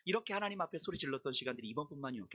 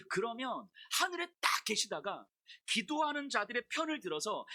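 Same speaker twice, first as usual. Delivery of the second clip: higher-pitched, heated complaint to God, not full volume; retold protest shout; 5 semitones higher than usual. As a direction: plead and argue as if re-enacting an outcry. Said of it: "뭐라고 소리를 질렀냐면".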